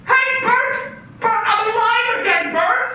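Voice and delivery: man overjoyed telling his friend he is alive. Acted. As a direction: burst with relief at being alive.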